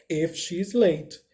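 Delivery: very slow finish of the sentence; slow teacher read; slow model reading. Shown as a demonstration. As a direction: drag it out for learners. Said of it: "Eu posso falar o seguinte".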